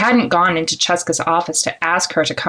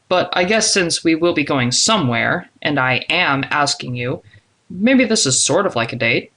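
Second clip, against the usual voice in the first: a hint of a male character, musing; lightly voiced man, tentative. Man admits it is sort of like a date, lightly voiced and tentative. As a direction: lightly play a man conceding the point. Narrator voices Zadok reconsidering.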